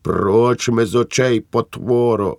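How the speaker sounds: wife shrieking at her husband. Acted. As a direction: screech it at him. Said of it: "верещала Ривка".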